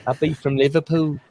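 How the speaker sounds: mock Liverpool accent; rough attempt at a British accent. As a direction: put on a bad British accent. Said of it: "when I do a British accent".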